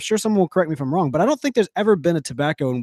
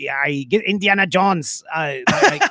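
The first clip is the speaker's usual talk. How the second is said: put-on failed German accent; slower than usual. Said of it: "I gotta get my German accent".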